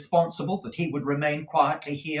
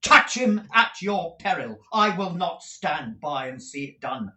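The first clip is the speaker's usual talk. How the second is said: furious threat; 5 semitones higher, 4 dB louder than usual. Acted. Nicholas threatens Squeers.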